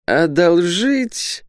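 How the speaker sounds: high, drawn-out alarmed cry; trembling alarm. Acted. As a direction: squeal it out slowly, aghast at the request. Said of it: "затрясся ростовщик". (испуганно, с дрожью, высоко и протяжно)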